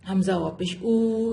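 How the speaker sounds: Hamza واپش او ending in a pure long u; correct maroof reading. Shown as a demonstration. Teacher models the correct maroof u sound in او. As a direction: stretch the او into a clean "oo". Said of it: "ایسے پڑھیں گے".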